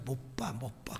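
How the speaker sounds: whispered, secretive "can't see". Retold or imitated. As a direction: hush it like a secret aside. Pastor's reply whispered in anecdote.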